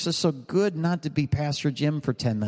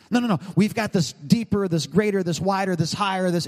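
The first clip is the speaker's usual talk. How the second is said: higher-pitched, pushy pitch of a would-be reformer; mock eager insistence; 4 semitones higher than usual. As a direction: act out someone insisting on their grander vision. Acts out eager newcomers pushing their vision.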